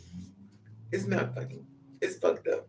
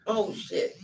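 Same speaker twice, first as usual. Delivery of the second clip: famous saying; 4 semitones higher than usual. Retold or imitated. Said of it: "This is one famous saying".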